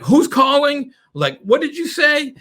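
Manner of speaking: high, puzzled who's calling; a prospect asking who this is, high; confused prospect. Retold or imitated. Prospect on the phone, puzzled and high. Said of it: "Or he's like".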